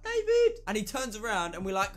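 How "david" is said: very high, loud call of the name; imitating a friend's squeaky high yell; high-pitched shout. Shown as a demonstration. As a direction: yell David up high to catch him across the street. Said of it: "It was in that high-pitched voice".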